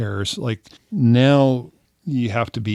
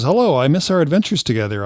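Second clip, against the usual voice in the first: quick, lightly raised scammer voice; texting scammer; 5 semitones higher, faster than usual. Acted. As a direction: read it as a friendly stranger, brisk and higher. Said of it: "She says".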